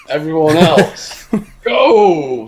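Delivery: retold gunman's shouted order; acted command. Acts out gunman ordering people out.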